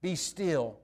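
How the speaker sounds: calm command. Retold or imitated. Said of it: "the creation has no other option but to obey".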